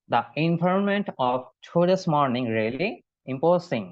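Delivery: very slow, word by word; teacher modelling slowly; slow model sentence. Shown as a demonstration. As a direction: read it out slowly for repetition. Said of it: "আমার সাথে repeat করেন সবাই".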